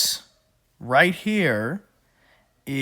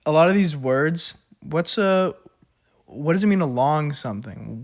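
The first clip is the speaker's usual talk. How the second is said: raised voice; 3 semitones higher, 4 dB louder than usual. Real, not acted. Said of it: "I feel like I'm screaming at my iPad".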